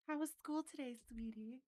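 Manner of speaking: high, sugary mom voice asking about school; lightly voiced mom; doting mom. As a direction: play the sweet mother greeting her kid. GM voices a mother picking up her son.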